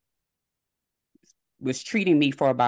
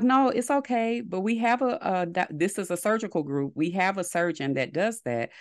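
mock-soothing phone voice, pitched up; reassuring receptionist; 6 semitones higher than usual. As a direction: imitate a higher-voiced receptionist soothing a caller. Receptionist soothing the crying caller.

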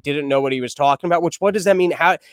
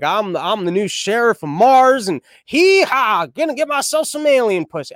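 hick cowboy sheriff; 4 semitones higher than usual. Retold or imitated. Comedian mocks space cowboy, lightly drawled hick voice. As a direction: ham up a hint of a Mars sheriff. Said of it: "like you're just showing up like".

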